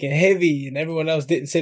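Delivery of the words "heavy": put-on punchy, louder Lebanese-Aussie accent; Lebanese Australian accent. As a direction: imitate a Lebanese-Australian mate. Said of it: "were Lebanese, and, like, they would be like".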